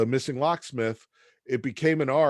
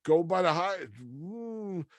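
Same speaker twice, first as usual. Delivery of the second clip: much higher, chipper salesman voice; cheery Joe; 7 semitones higher than usual. Retold or imitated. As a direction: sell Milwaukee like a booster. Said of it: "He's like".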